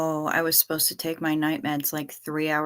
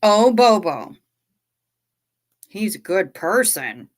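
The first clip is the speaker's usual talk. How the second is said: imitating Reese; 5 dB louder than usual. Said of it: "sounded like Reese talking to Bobo".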